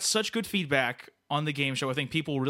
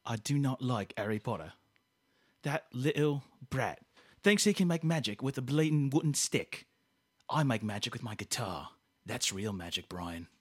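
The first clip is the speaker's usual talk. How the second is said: grumpy rock star; 2 semitones lower than usual. Acted. Grumpy character rant.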